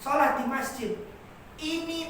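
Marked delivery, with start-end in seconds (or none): 0.0-0.9 calling out. Shown as a demonstration. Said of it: "biasanya kayak gitu".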